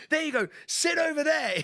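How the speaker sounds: imitating Mike. Mike pushes someone out, offers seat.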